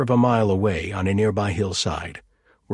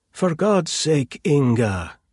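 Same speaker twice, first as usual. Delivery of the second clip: snapping; 6 semitones higher, 4 dB louder, slower than usual. Acted. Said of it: "Auntie Dagmar snapped".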